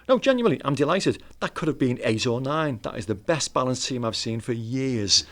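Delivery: earnest retold praise; Jackie Charlton. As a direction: insist on sincere delight, stretching the praise. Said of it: "he was genuinely meant to".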